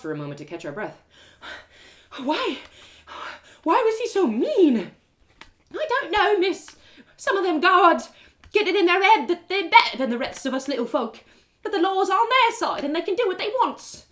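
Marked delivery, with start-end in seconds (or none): 2.2-4.9 higher, louder hurt question; upset asking. Acted. Narrator asks the beggar woman why, hurt. 5.7-14.0 put-on higher, louder weary old beggar. Beggar woman explains guards to narrator, resigned.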